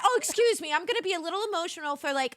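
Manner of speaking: high, fast mock-apology voice, lightly voiced; gently teasing impression of an over-apologizing friend; mock apologetic guest. Host teasing guest who apologized for crying, mock-apologetic. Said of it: "she's like".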